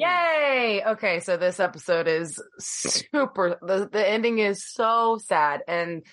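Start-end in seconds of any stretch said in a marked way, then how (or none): 0.0-0.8 higher, bright cheer back. Real, not acted. Co-host cheering back at the host, in a higher, gleeful voice. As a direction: echo the cheer with real glee.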